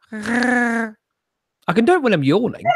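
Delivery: attempted Wookiee roar; Chewbacca growl. Shown as a demonstration. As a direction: try a Chewie growl. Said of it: "I can't do one".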